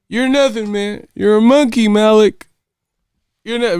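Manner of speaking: high, loud, scared ranting movie line; imitating Remy. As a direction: shout it like a panicked gunman. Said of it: "Remy was tri-, racist and tripping".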